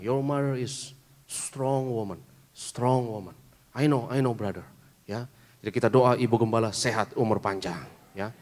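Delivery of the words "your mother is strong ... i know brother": slow, insistent driver voice, lightly put on; taxi driver. Driver assures the pastor about his mother, slow and insistent. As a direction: press the point slowly and surely. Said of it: "dia bilang".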